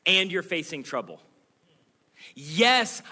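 high, loud and insistent, slowing on the last line; God's promise, loud. Acted. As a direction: proclaim each promise like a rising cry. Preacher voicing God's promise.

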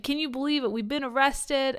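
mock mobster with slight New York accent. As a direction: put on a hint of New Yorker. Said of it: "they've got a slight New York accent".

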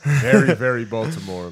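put-on slow, loud Baltimore accent. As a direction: lean into Baltimore vowels. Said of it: "her accent is".

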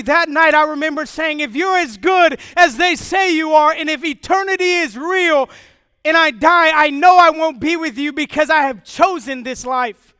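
loud, accusing plea to God; retold bitter defiance; defiant prayer. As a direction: hurl it at God.

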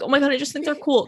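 fast, high gushing mock fan voice; mock the breathless fan who gushes; gushing fangirl. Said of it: "I hate when people are like".

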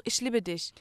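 "Ich liebe dich" as one word, "ischlibedisch"; imitated film mispronunciation. Quoting the man in a film, "Ich liebe dich" mangled into one word. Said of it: "Und unter anderem sagt er auch".

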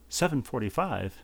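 put-on surprised English accent question. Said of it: "I can't do the English accent well".

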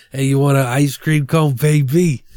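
creepy voice. Retold or imitated. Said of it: "super fucky".

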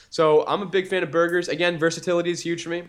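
strong Boston accent. Real, not acted. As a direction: let the Boston accent slip out. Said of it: "a little bit of your Boston-like accent just came out, like, strong".

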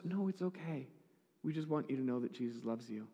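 soft, calming reply; retold reassurance. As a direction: gently soothe someone upset. Reassures distraught woman, retold.

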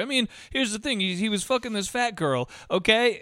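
lightly acted, confiding anecdote opener; soft mock barroom storyteller; telling a funny story. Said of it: "someone might tell a funny story".

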